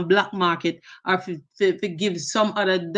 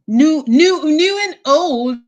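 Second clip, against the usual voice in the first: excited shout-out; 8 semitones higher, 8 dB louder, slower than usual. Real, not acted. Hyping up stream subscribers.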